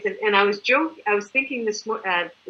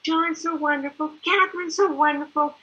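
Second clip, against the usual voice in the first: higher, sing-song praise; self-mocking gushing; 6 semitones higher than usual. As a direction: gush like a fan while poking fun at it. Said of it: "now I'm laughing because I'm doing the same thing".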